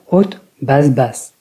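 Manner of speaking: "haute" high, then "basse, basse" dropped; high-low-low pitch pattern. Shown as a demonstration. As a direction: recite "haute, basse, basse" falling after the first word. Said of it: "La première mora est haute".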